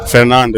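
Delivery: "Fernando" said carefully as fer-NAN-do; name repeated. Shown as a demonstration. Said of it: "I will repeat my name again".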